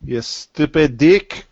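drawn out, very slow insult; slow mock insult. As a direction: stretch each word out.

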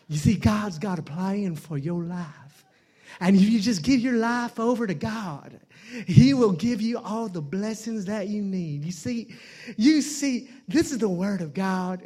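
gentle preacher cadence; smooth inspirational sermon voice; Joel Osteen impression. Comic doing a gentle televangelist sermon. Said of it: "you guys heard of Joel Osteen?".

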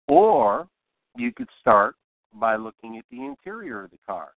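a pause hanging after "Or"; deliberate pausing. Shown as a demonstration. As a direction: set "Or" apart with a long pause, then carry on. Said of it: "I used pausing".

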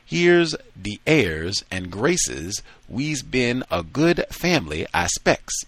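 slow, hammed-up mimicry of a fussy dandy; mock-genteel voice, rising to a high finish; ludicrous imitation. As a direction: camp it up to ridicule his airs. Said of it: "gave a ludicrous imitation of Adolf's manner".

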